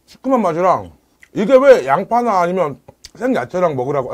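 talking while chewing food; muffled words around food; mouth full, chewing. Real, not acted. Seen 0: eats raw fish then bites green chili, chewing throughout.

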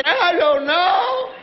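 put-on drawn-out clueless child; dopey child drawl. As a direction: stretch it out like a clueless kid. Imitating the dopey excuse.

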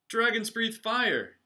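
very high, loud and slow coach's yell. Acted. Coach yelling at the dragons at fire practice. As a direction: bark it at the whole class. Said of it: "yelled the coach".

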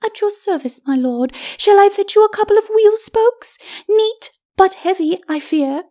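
very high, sweetly taunting lady's voice; high, airy ladyship; mock-obliging lady. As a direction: offer help with mocking courtesy. Lady's character voice.

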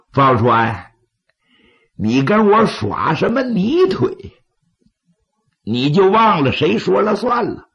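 scornful bandit chief; angry laugh. Acted. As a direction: laugh in anger, then argue back. Wang Dian laughs in anger, argues.

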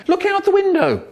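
very high robotic call. Acted. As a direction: sound like a squeaky robot. Inspector in robot voice.

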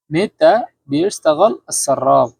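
মেতা বিশতাগাল said slowly, each word separate; slow full form. Shown as a demonstration. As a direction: spell out every word slowly for learners. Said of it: "যখন একটু দ্রুত বলবেন". (ধীরে ধীরে মেতা বিশতাগাল)

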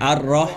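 "อัร รอ" with a rolled r, lips unpursed; unrounded R drill. Shown as a demonstration. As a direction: say "อัร รอ" in two clear pieces without rounding. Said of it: "อันนี้ไม่ห่อนะ".

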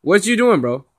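loud laughing disbelief; excited disbelief. Real, not acted. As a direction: call out loudly, amused. Laughing disbelief at rage quit.

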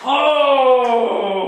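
loud high startled cry; surprised. Real, not acted. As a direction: blurt it out in shock. Shocked camera still recording.

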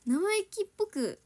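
ordinary talk

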